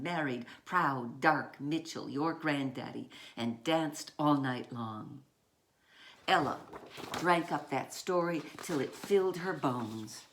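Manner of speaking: put-on measured read-aloud voice for children; story narration. A narrator's reading. Author reading her picture book to children, measured.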